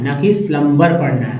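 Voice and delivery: स्लम्बर with a b sound, shown as the wrong way; wrong pronunciation shown. Shown as a demonstration. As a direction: say स्लम्बर with the b, as the mistake. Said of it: "स्लम्बर नहीं".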